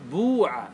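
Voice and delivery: بوع with a long "oo" after the b; damma on the first letter. Shown as a demonstration. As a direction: say بوع as "boo-'a", pure damma. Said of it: "عن العرب الضم".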